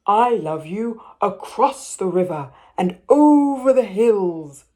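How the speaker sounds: a hint of a proud father; gently voiced big father hare.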